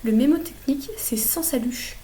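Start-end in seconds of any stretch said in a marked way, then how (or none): 1.2-2.0 "sans saluche" whispered slowly, like a secret tip; whispered mnemonic. Shown as a demonstration. Tutor sharing the memory trick with students, slow whisper.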